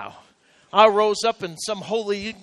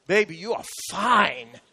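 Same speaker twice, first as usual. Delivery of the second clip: sweet talk; 3 semitones lower, 4 dB quieter than usual. Pretend. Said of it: "You look at her and you say".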